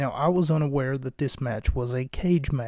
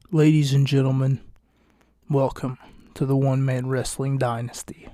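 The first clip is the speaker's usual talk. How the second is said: announcer opening. Shown as a demonstration. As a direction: belt out Ladies and gentlemen like a ring announcer. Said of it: "Let me try that again".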